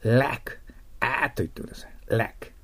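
ラック with an open, spread "æ"; English "lack". Shown as a demonstration. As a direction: draw out あーっ, then put it into ラック.

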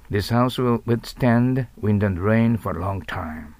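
slow, even English demo; slow model reading. Shown as a demonstration. Teacher repeating the example sentence for the class, slowly. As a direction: say the sentence slowly for students to copy.

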